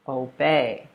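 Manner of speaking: o-BEY, weight on the second syllable; second-syllable stress. Shown as a demonstration. Teacher modelling obey, stressed on the second syllable. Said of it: "emphasis on the second syllable".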